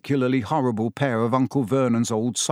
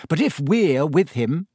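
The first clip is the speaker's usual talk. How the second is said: spirited; 3 semitones higher than usual. Acted. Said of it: "said Ron spiritedly".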